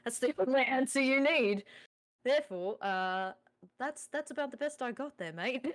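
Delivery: put-on Aussie accent. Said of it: "in an Aussie accent".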